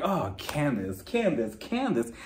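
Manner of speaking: quietly despairing, half-amused; mock exasperation. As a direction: sigh the name in disbelief. Retold weary reaction to cyberbullying claim.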